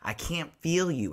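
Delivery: whispered, barely voiced, heartbroken; Rogue's soft whispered grief; grieving whisper. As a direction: breathe it out like holding someone dying. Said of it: "she's like".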